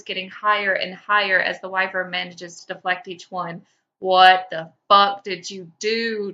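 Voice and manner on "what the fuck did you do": slow, loud exasperated demand; Taco screaming at his teammates mid-fight; screech. Acted. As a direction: yell it in frantic disbelief. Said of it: "Taco screeches".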